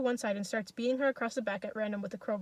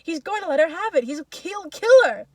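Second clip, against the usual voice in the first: high, excited yell; loud alarmed holler, peaking on the last word; crowd shout; 7 semitones higher, 12 dB louder than usual. A narrator's reading. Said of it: "The shout goes up".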